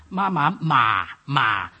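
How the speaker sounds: "Ma, ma, ma, ma" stepping down to a low last "ma"; descending tone drill; third tone demo. Shown as a demonstration. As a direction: let each "ma" sink toward the bottom of the voice. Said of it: "Third tone means horse".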